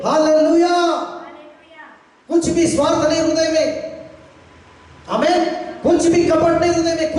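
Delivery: impassioned sermon list; preaching. Real, not acted. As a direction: drive each phrase home to the congregation. Preaches with raised voice.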